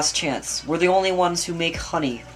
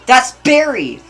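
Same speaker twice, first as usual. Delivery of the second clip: high, loud cry of recognition; high-pitched excited yell; excited shout; 8 semitones higher, 10 dB louder, slower than usual. Acted. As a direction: shout it out on spotting someone you know. Sudden outburst during news report.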